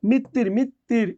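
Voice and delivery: মৃত্যুর said slowly and distinctly, twice; slow teacherly মৃত্যুর; pronunciation demo. Shown as a demonstration. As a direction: model মৃত্যুর carefully at a slow pace. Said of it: "এভাবে হবে মৃত্যুর উচ্চারণ".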